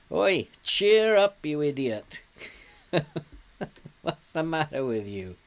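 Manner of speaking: high, loud call across the pitch; loud jeer. Real, not acted. Manager telling his moping player to cheer up, loud jeering shout. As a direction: shout at him to snap out of it.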